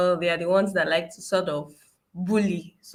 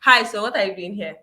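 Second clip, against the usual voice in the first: brusque demand; 5 dB louder than usual. Retold or imitated. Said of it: "the person replies is".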